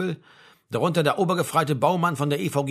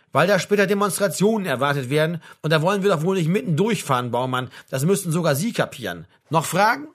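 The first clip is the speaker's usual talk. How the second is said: slightly raised, impatient sergeant's answer; brusque sergeant major; 3 dB louder than usual. Acted. Sergeant major to Baumann, impatient put-down. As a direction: explain it as if to a dimwit.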